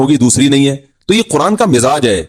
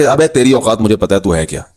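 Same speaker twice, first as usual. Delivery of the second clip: mock taunt; 6 semitones lower than usual. A taunter belittles the preacher, mock sneering jeer. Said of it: "जो ताने देने वाला है ना".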